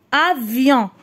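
"Avion" in measured syllables, falling at the end. Shown as a demonstration. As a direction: read "Avion" as a-vion. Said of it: "نقراو les syllabes". ("Avion" مقطعًا مقطعًا)

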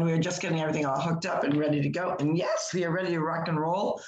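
hoarse morning voice. Real, not acted. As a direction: talk through a hoarse throat. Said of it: "I've got a hoarse voice this morning".

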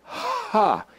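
HA with a long, airy H before the vowel; letter sound demo. Shown as a demonstration. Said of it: "and this one is".

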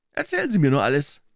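mildly encouraging invitation; gently urging him on. A narrator's reading. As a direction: coax the nervous visitor to talk. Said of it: "sagte er aufmunternd".

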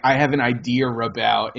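"idea about" joined with an R, idear-about; linking R. Shown as a demonstration. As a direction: slide an R between "idea" and "about". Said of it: "It's like".

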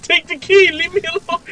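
high pleading monster voice. Retold or imitated. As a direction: voice the creature begging to be left alone. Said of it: "He said".

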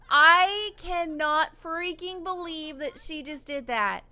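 slow, laughing through the words; can't believe it, laughing; loud, slow laughing outrage; laughing disbelief. Real, not acted. Disbelief at her employee.

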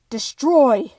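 loud villain shout in a put-on voice; booming creature command; destroy take. Shown as a demonstration. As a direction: roar it like a monster queen. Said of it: "I'll give you a couple destroy takes".

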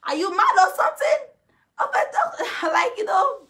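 high, loud taunt dissolving into laughter; mocking yell into laughter; laughing mock taunt. Real, not acted. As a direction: cackle through it. Quote then laughing.

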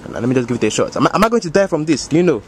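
put-on African-accented uncle voice, unhurried. Uncle bragging to the homies, African accent. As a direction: play the boastful African uncle.

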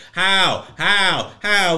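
loud repeated how; exasperated loud how; incredulous how. Real, not acted.

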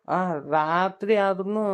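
slow, with ಆದ್ರೂನು stretched and rising; slow drawn out. Acted. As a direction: linger on ಆದ್ರೂನು. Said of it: "ನಡು ರಾತ್ರಿ ಆದ್ರೂನು". (ನಿಧಾನವಾಗಿ ಆದ್ರೂನು ಎಳೆದು)

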